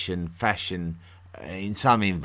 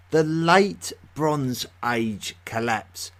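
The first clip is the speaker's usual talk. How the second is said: teasing; 6 semitones higher, 4 dB louder, slower than usual. Real, not acted. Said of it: "What on earth is all that about?".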